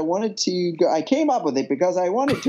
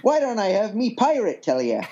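pirate voice; 4 semitones higher than usual. Pretend. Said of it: "your best pirate voice".

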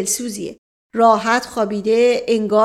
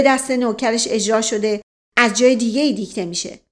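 sharp tone. Acted. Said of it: "با لحن تندی گفت".

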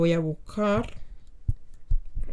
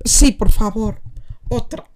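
whisper; 2 semitones higher, 8 dB louder than usual. Real, not acted. Whispered answer.

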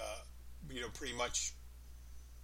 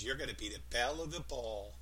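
put-on Northeast accent. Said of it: "With that Northeast feeling".

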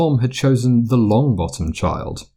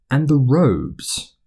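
slow, pointed remark; 4 semitones higher, much slower than usual. Acted.

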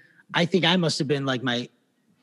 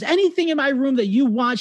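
imitating sad Lynn; 10 semitones higher than usual. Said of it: "she's so sad".

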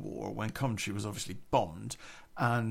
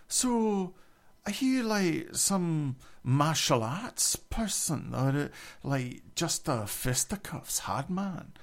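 a higher, curious generic female voice, lightly done; 3 semitones higher, slower than usual. Retold or imitated. Scottish guy fascinated by the narrator, in a higher generic voice. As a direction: ask it eagerly, in a slightly lifted pitch. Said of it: "I have to use the female generic voice for this".

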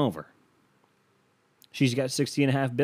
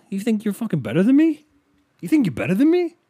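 high, loud, hammed-up outrage; mock indignant challenge; 9 semitones higher, 6 dB louder, faster than usual. Podcaster firing back at partner over prenup, mock indignant. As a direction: challenge them in a squeaky-high mock fury.

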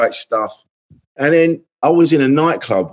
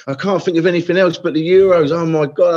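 mock gushing; 7 semitones higher than usual. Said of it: "He goes".

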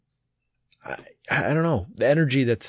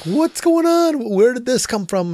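high, drawn-out dismayed cry, retold; wailed question, much higher than usual; heartbroken parent; 11 semitones higher, 3 dB louder, slower than usual. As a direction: act out a parent's pained disbelief. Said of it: "Punches me in the heart".

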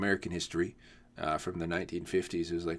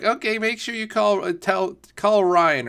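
mock eager mom, higher and louder; a lightly voiced pushy mom, pitched up; imitating an eager mom; 13 semitones higher, 11 dB louder than usual. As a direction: hand out the advice like a keen mom. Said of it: "she's like".

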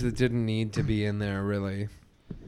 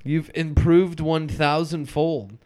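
higher, slow hammed-up praise; Mr. Krabs voice; 5 semitones higher, 3 dB louder, slower than usual. Friend joining in, hamming up Mr. Krabs' slow praise. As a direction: drag out the proud boss line. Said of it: "He's like".

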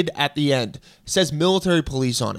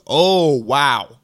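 mock impressed wow; 5 dB louder than usual. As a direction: play the agent stunned by the blade. TSA agent opens the knife.

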